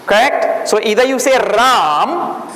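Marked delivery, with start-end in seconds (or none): 1.4-2.4 Ram with no final vowel; Hindi Ram. Shown as a demonstration. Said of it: "like that".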